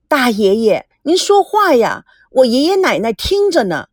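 urging grandson. Acted. Grandson urges his great-uncle to speak into the phone. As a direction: hurry him to speak.

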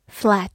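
"flat" with a wide-open A vowel; open-mouthed A. Shown as a demonstration. Teacher shows the vowel in "flat", open-mouthed A. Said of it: "字母A发大口的A".

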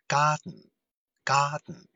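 "Garden" with the den swallowed into the nose; "garden" with a swallowed dn ending; nasal plosion. Shown as a demonstration. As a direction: say "garden" as gar-dn, no vowel before n. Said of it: "这个garden这个词发音上有什么特点".

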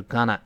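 gonna run together as one word; relaxed "gonna", the to swallowed; quick reduced form. Shown as a demonstration. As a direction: say "gonna" as a casual contraction. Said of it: "读快就是gonna".

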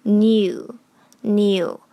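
"new" as in and you merged; drawn-out linked syllable "new"; linking. Shown as a demonstration. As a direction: say "new" slowly, n gliding into you. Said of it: "in和you连读成".

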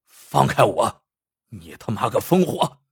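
a hint of a tough voice covering fear; blustering. Panicked bandit yells at Lu Dui to let go, blustering. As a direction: bark it out, scared underneath. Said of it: "他色厉内荏".

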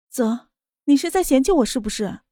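hurt, pleading question; aggrieved. Acted. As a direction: sound wronged and fragile. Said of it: "她委屈的道".

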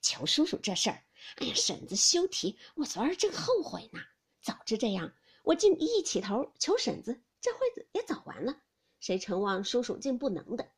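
put-on mild coaxing young man; fawning laugh. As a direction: flatter the aunt, half laughing. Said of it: "贾云笑道". (陪笑讨好)

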